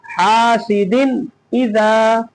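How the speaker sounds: "हासिदिन इजा" slowly, with a clear n before "इजा"; careful model reading of "हासिदिन इजा"; clear nun. Shown as a demonstration. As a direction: draw out the first vowel, sound the n plainly in "हासिदिन इजा". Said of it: "जाहिर करके पढ़ेंगे".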